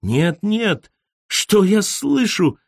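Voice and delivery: high, slow theatrical outcry; mild mock yell. A narrator's reading. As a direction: overplay shocked disbelief. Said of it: "проорала Фройлейн". (театральный высокий вскрик)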